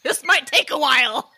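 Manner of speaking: laughing quip. Pretend. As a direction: play along with the joke, laughing. Listener joins the joke, laughing.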